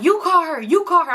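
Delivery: high-pitched mock insisting; insistent. Boyfriend telling her to make the call, mock insistence. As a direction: push it back on the listener, twice over.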